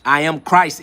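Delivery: emphatic declaration of faith; defiant cry. Real, not acted. Defending his cry to critics, a defiant cry. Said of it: "is my cry".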